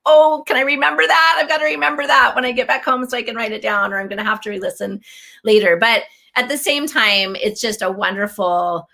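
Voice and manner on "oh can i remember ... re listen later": excited self-talk. Retold or imitated. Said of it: "I'll be like".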